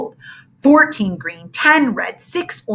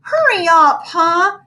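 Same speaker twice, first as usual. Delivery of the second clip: louder, impatient and pushy; impatient groan; 9 semitones higher, 6 dB louder, slower than usual. Acted. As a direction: rush her along, fed up. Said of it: "Ham groaned".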